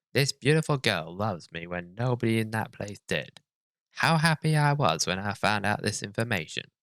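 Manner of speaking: hammed-up creepy narrator. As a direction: read it like a creep. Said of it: "Why do you say it in, like, the most creepy way possible?".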